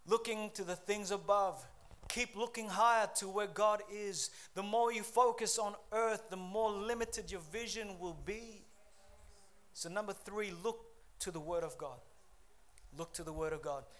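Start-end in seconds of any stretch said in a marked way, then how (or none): 0.1-8.7 raised, higher pulpit voice; earnest sermon exhortation; emphatic preaching. Acted. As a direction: preach it with energy.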